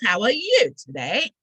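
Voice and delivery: big swooping English-accent greeting; best English accent. Shown as a demonstration. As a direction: put on your very best English accent, playfully grand. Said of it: "That's my very best English accent".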